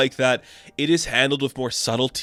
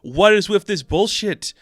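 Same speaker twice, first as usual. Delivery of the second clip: high, exasperated mock rant; exasperated outburst; 9 semitones higher than usual. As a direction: throw up your hands at him, pitched way up. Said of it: "She's like".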